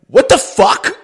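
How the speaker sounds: high, loud disbelief; mock outraged kid. Kid learns goal was given away, high mock outrage. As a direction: explode in exaggerated indignation. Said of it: "I'm just really mad".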